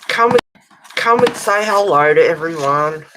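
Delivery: loud call across the room. Real, not acted. Calling the cat over.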